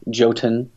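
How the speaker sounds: "Jotun" said as JOE-tun; Jotun with a J sound. Shown as a demonstration. Repeating the other option, "Jotun" as JOE-tun. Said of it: "depending on how you wanna say it".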